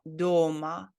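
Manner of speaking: "дома" stressed on the о; long stressed о in "дома", short final а; stress on first syllable. Shown as a demonstration. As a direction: lean on the first vowel of "дома". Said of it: "it has the emphasis on letter O".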